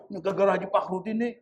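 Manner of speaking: fast, petulant complaint; grumbling worshipper. Retold or imitated. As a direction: rattle it off, blaming someone else. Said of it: "Salahin dia".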